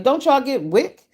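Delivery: asking a stranger about WIC, drawn out in disbelief; incredulous. Retold or imitated. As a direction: stretch it out in disbelief. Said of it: "I was like".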